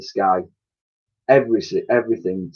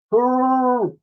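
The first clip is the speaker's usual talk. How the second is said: much higher, sleepy mammoth hurrah; mammoth's hurrah; 13 semitones higher than usual. A narrator's reading. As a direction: say it like a drowsy mammoth. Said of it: "Woolley would reply".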